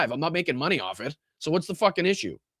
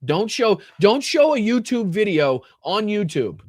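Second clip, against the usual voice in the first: exasperated emphasis; 6 semitones higher, 5 dB louder, slower than usual. Real, not acted. Ranting at YouTube's rules.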